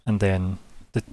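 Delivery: hushed scene-setting, measured and unhurried; game master narration. Acted. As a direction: set the scene quietly, with suspense.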